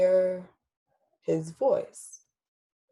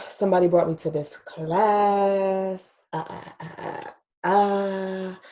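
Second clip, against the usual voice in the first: slow, drawn-out mock quote; mocking imitation of him; slower than usual. Imitating the man who joined her class, drawn-out mockery. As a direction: stretch out the last word, then stammer on ahs. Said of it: "And he's saying".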